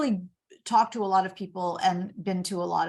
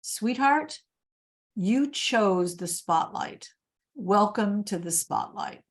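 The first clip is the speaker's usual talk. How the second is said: gentle mom; slower than usual. Retold or imitated. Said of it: "my mom paused".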